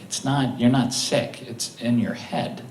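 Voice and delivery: soft, quiet reassurance; a hint of a soft, kind wife; gentle wife. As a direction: calmly tell him it's in his head.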